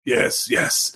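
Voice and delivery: a whispered voice meant for another character; wrong voice slip. A narrator's reading. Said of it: "I slipped into the wrong voice".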